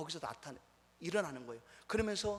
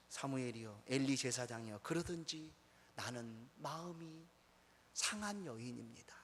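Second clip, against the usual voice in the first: low, subdued, slowing plea; a lightly acted, quiet sorrow, drawn out toward the end; heartbroken Hannah; 3 semitones lower, 5 dB quieter than usual. Hannah answers priest Eli as a woman hurt at heart, lightly voiced sorrow. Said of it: "그러나 한나는 어떻습니까?".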